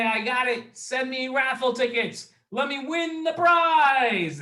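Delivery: put-on eager kid voice.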